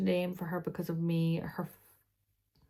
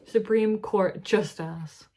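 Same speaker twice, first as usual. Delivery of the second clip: mock grand; 6 dB louder, slower than usual. Real, not acted.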